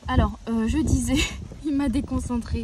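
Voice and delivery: giggly and thrown off; amused, laughing. Real, not acted. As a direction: laugh through the words. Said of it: "pardon, je rigole".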